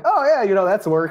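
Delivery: light mock relief; retold relief. Teacher telling parents he found the word, eager relief.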